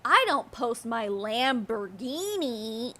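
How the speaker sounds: slow, mocking mimicry of a brag; mocking imitation. Viewer mimicking her car brag, slow and mocking. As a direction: draw it out, making fun of the boast. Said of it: "she had to specify".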